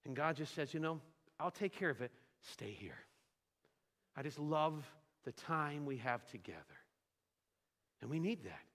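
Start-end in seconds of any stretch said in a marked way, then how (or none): 0.7-6.8 gentle reassurance. Acted. God voiced gently to believer.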